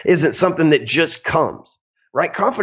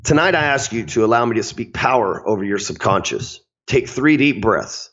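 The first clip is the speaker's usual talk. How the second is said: deep crooner voice. Shown as a demonstration. Sales coach reading nightly mantras to listeners, lightly crooned. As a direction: read the affirmations like a lightly lowered seductive crooner. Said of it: "Let me get my crooner voice".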